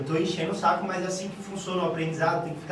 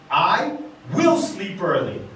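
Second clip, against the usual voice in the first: slow, firm declaration; inverted intonation, assertive; 3 dB louder, slower than usual. Shown as a demonstration. Teacher shows students that intonation decides, slow and assertive. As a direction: state it with deliberate certainty. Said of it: "eu posso inverter a minha intenção, minha entonação".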